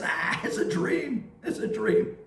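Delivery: breathy whisper, brushing it off as just a dream; whispered dismissal. Retold or imitated. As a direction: whisper it to yourself, unconvinced. Priest dismissing dream on waking.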